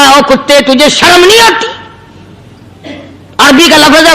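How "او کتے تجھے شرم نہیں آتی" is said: angry scolding. Acted. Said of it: "غصے میں آ گیا".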